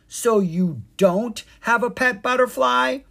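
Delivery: high, loud, incredulous question; open-mouthed surprise. A narrator's reading. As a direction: ask it in sheer disbelief. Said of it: "mouth was open in surprise".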